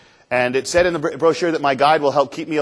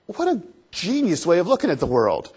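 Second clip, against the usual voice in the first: higher-pitched retold wonder; amazed admiration; 4 semitones higher than usual. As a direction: marvel at a brilliant idea. Awed reaction to guide's philosophy.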